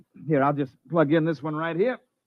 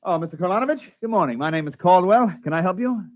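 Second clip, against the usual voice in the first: salesman charm; 5 semitones higher than usual. Acted. Salesman greeting customer sweetly.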